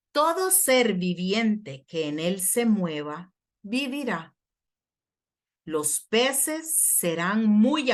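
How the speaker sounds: deliberate, emphatic scripture reading; slow reading. Real, not acted. Preacher reads the river's promise of life, slowly and deliberately. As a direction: read slowly, pausing between phrases, settling at the close. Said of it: "Lo voy a leer despacio".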